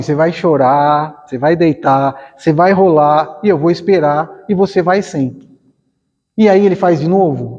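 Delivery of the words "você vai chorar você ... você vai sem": calm firm mother. Acted. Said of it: "ela para do lado e fala assim".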